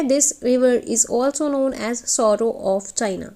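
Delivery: sorrow of China drawn out word by word; very slow, deliberate teacher read; slow dictation. Shown as a demonstration. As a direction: lay each word down slowly for note-taking. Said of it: "teacher dictates key phrase slowly".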